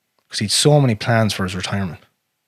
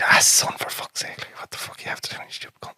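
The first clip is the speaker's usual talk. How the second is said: imitating dad; 8 dB quieter than usual. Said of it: "He'd be".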